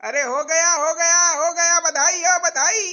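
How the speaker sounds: relieved announcement. Acted. Doctor announces birth.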